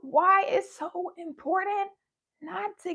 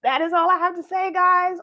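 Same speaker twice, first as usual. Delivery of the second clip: loud; 8 dB louder than usual. Real, not acted. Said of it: "I'm sorry for yelling".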